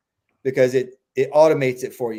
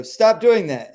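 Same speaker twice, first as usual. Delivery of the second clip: mock scolding owner; 7 semitones higher, 5 dB louder, slower than usual. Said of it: "So you go".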